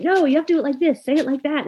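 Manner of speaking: high, insistent correction from a strict tutor; strict correcting tutor. Retold or imitated. Italian tutor correcting a nervous student, strict and insistent. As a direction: correct her sharply, like a demanding teacher. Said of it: "her instructor was punishing her".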